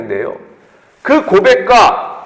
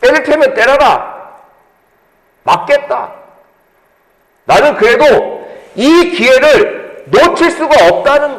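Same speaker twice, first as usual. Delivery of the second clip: defiant resolve; 5 semitones higher than usual. Retold or imitated. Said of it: "더 크게 소리 질러요".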